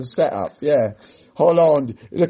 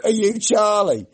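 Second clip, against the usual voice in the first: slow, higher-pitched menacing question; gunman's demand; 8 semitones higher, slower than usual. Retold or imitated. Gunman storming the office asks for Charlie, slow and raised. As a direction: ask it slowly, like a masked gunman checking faces. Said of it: "and says".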